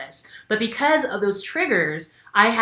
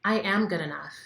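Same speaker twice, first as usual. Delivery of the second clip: calm affirmation; 4 dB quieter than usual. Shown as a demonstration. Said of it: "say the affirmations".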